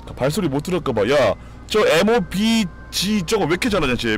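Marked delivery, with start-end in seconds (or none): 1.1-4.2 amazed. Real, not acted. Marveling at a skilled enemy.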